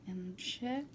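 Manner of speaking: soft unvoiced whisper. Real, not acted. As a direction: breathe it in a hush. Whispered aside while eating on camera.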